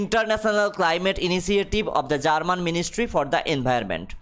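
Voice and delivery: reads the English line very slowly, word by word; slow dictation reading. Acted. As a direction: spell it out for the class at dictation pace. (ধীরে ধীরে ইংরেজি পাঠ)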